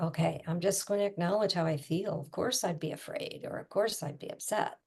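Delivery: calm acknowledging. Shown as a demonstration. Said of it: "And it would calm right down".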